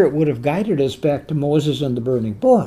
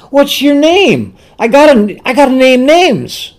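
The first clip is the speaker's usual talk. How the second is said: higher-pitched mock questioning of Moses; lightly acted protest; 7 semitones higher, 4 dB louder than usual. Acting out Moses' worried protest.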